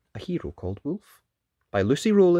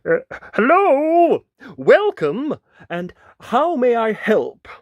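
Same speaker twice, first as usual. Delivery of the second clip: much higher, slow squeaky yelp; nervous little yelp, pitched way up; small yelp; 11 semitones higher, 12 dB louder, slower than usual. Acted. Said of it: "his voice a small yelp".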